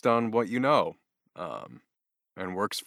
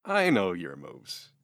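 wife voice; 9 semitones higher, 10 dB louder, slower than usual. Retold or imitated. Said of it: "she was like".

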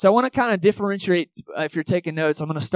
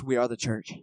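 imitating his buddy; 6 semitones lower, 8 dB quieter than usual. Buddy correcting friends who say going to church, low and soft. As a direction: lower and softer, a mock correction of a friend. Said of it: "he would always snap on you".

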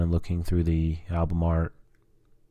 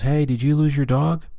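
high-pitched woman's voice; imitated neighbor woman; 9 semitones higher than usual. Neighbor asking about a lost dog, high imitated voice. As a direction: call it over high, as a helpful neighbor. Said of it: "this woman goes".

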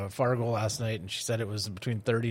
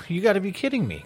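higher, lightly incredulous joke lizard; mild disbelief; 8 semitones higher, 3 dB louder, faster than usual. Acted. Lizard answers the monkey up the tree, mild disbelief. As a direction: sound a touch incredulous, pitched up.

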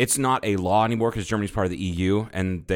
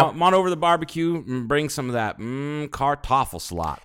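southern redneck; 5 semitones higher than usual. Pretend. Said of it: "what they say in the South".

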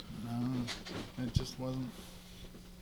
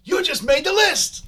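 shouted, much higher, slowed; loud Jericho catchphrase; 9 dB louder, slower than usual. Pretend. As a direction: bellow it like a wrestling promo. Jericho catchphrase jab at Jared.

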